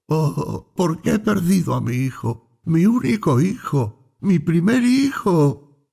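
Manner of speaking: mild sobbing cry building to the end; weeping cry. A narrator's reading. Mother laments her son to the priest, weeping cry. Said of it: "ella lloró y gritó diciendo".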